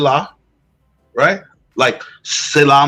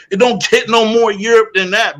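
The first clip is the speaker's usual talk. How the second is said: laughing through the repeat; 5 semitones higher than usual. Real, not acted. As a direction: chuckle while repeating it.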